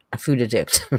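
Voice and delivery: "addict" said uh-DICT, first syllable reduced; misplaced stress on addict. Real, not acted. Streamer repeats her own slip, "addict" stressed on its second syllable. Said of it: "Put the emphasis on the wrong syllable".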